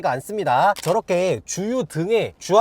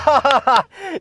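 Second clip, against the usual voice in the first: delighted laugh; 5 semitones higher, 5 dB louder than usual. Real, not acted. Laughs at result.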